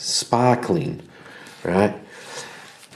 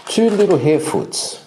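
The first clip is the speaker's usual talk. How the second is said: "two little harefoots" lifted much higher, with the stress on "two"; excited announcement; 10 semitones higher than usual. Acted. Game master revealing who walks in, with a high excited lift on "two little harefoots".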